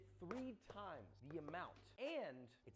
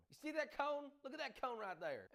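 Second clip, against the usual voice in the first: excited; 9 semitones higher, 5 dB louder than usual. Real, not acted. Showing off the salt cone.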